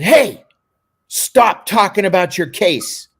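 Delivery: firm, projected reprimand; retold sharp order. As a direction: call him out loudly, retelling it. Acted confrontation in the chapel.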